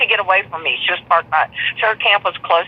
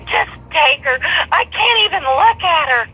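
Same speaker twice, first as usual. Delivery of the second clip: higher, hammed-up wounded voice; mock melodramatic; 9 semitones higher than usual. Teller mocking ex-friend handing back the dog, high and theatrical. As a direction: imitate her refusing to even look at the dog. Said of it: "could we be more dramatic".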